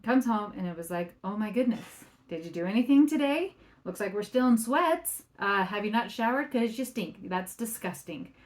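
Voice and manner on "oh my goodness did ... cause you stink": nagging spouse. Retold or imitated. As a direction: play the disgusted spouse picking at everything. Spouse criticizing on coming home.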